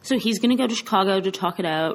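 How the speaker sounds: chewing while talking; words round a mouthful of chocolate; mouth full. Real, not acted. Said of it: "I'm eating more chocolate".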